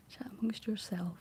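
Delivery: a hint of classroom instruction; lightly schoolteacherly, addressing the whole class; primary school teacher. Real, not acted. Streamer repeats it to chat after laughing, lightly teacherly. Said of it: "sound like some sort of primary school teacher".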